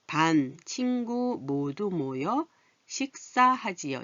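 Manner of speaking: slow, drawn-out reading for learners; slow reading aloud. Shown as a demonstration. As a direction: read each word slowly for the class. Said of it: "다시 읽어볼까요". (천천히 또박또박 읽기)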